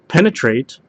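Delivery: ordinary talk, nothing marked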